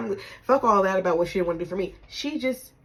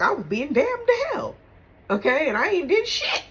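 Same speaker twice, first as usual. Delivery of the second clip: louder and higher, indignant; 9 semitones higher, 6 dB louder than usual. Real, not acted. Telling how the family judged her, loud indignation. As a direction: protest being damned for nothing. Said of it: "indignant outburst".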